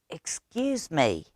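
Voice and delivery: a soft hushed excuse me; whispered. Acted. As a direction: lean in and speak softly to the librarian. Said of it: "Stevie whispered".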